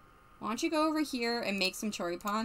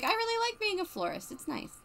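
voicing her; 10 semitones higher, 5 dB quieter than usual. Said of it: "And she's like".

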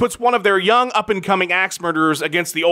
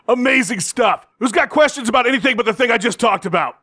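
brash fight promoter; 3 semitones higher than usual. Acted. Hyped promoter press conference rant.

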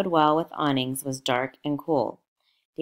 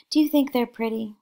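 much higher and louder, gushing; excited; 9 semitones higher, 5 dB louder than usual. Acted. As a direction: show the child off with delight. Daisy showing off her child.

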